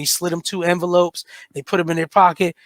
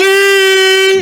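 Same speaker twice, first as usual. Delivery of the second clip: a loud, high, delighted shout of the name; excited greeting; 10 semitones higher, 9 dB louder than usual. Retold or imitated. Everybody at the cookout welcomes Bill Clinton with a loud, excited cheer. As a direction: greet him like a returning hero.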